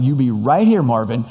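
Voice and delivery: firm stress on "right here"; retold instruction, "right here" pressed firmly; making it really clear. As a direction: drive home "right here", dropping on the name. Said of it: "I'm gonna make it really clear".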